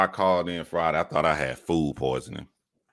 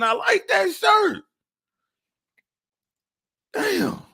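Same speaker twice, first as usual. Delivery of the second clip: exasperated high rant; 12 semitones higher than usual. Real, not acted. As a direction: whine it up high in disbelief. Ranting about stolen shirt.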